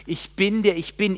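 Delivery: loud, high declaration; proclaiming God. Acted. God declaring his name to Moses, loud. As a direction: proclaim it with full force. Same words proclaimed loudly.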